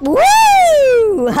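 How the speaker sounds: high whoop then laugh; excited whoop. Real, not acted. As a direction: cheer the escape. Escaped the chase.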